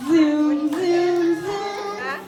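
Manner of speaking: put-on bright singsong countdown for kids; kindergarten teacher voice. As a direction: lead the little ones like a preschool teacher. Preschool teacher leading rocket song.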